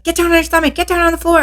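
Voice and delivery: high, forceful order to get down; barking orders. Retold or imitated. Parole officer ordering her onto the floor, forceful shout. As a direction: bark it like a cop taking someone down.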